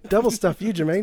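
a light Murray squeal; Murray impression. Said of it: "when Murray says".

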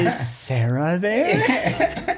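a hint of an old grandma on the phone; lightly voiced sweet grandma. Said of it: "in her grandma voice being like".

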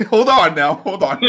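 talking through laughter; laughing while saying it. Real, not acted.

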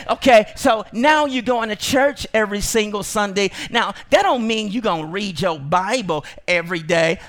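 a hint of a sly weasel; lightly sneering taunt; enemy voice. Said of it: "He'll say".

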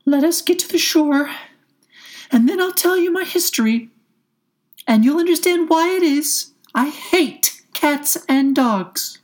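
high, loud, impassioned mouse voice; trembling mouse. A narrator's reading. Pale mouse promises Alice its history, trembling high voice. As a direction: quaver with passion in a high mouse voice. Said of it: "in a low, trembling voice".

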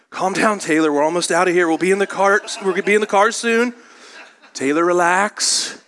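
mock coaxing that climbs toward comic desperation; hammed-up reassurance building to a strained plea; frazzled parent. Voices a frazzled parent with toddler.

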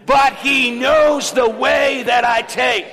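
preacher whipping the church into a loud proclamation; say it like you mean it. Shown as a demonstration. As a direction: proclaim it with full force. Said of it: "Come on, say it again".

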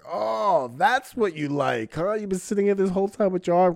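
calling him out. Retold or imitated. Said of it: "And I'm like".

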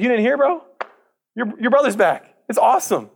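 high, bright-eyed hired hand bursting with news; excited hired hand. Acted. Hired hand telling the older son the news, excited and high. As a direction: tell him like it's the best news ever.

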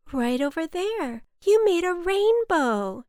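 high, loud, delighted announcement; excited. A narrator's reading. Boy shows the cloud its rainbow, excited.

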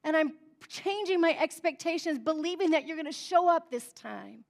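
a touch of desperate pleading, easing off; desperate cry. Acted. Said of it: "It was this cry of".

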